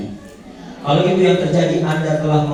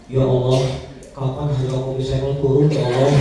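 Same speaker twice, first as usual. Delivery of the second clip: whiny prayer; 3 semitones lower than usual. Pretend. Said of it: "Jangan Bapak dan Ibu sekalian begini".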